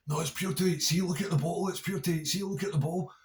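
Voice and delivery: high, squeaky mock voice for the wee guy insisting; mimicking Barry. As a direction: pipe up high and defensive, repeating the claim. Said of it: "He's going".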